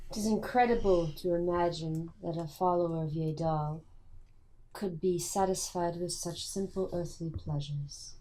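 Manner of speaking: measured, slowing to a soft close; lightly played, courteous and deliberate character; formal adventurer.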